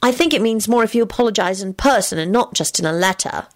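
high-voiced character giving advice. Character's line voiced in a story.

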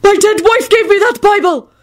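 high outraged bellow in character. A narrator's reading. Widower protests his torn Bible, bellowing. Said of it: "Parks bellowed".

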